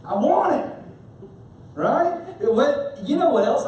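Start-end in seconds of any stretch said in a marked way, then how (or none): 0.0-0.7 a hint of a toddler begging; lightly voiced greedy child; whiny two-year-old. Preacher playing a toddler craving a new phone. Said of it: "like a little two-year-old saying".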